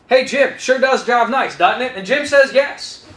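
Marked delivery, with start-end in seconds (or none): 0.1-1.9 slow and easy, fall then rising tag; slow leading question. Shown as a demonstration. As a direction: lead him gently to the yes. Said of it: "So we ask the guy".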